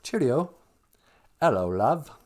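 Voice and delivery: hammed-up British greeting, imitating; mock English accent. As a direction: do a comically wrong English accent. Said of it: "he's got this weird New England accent".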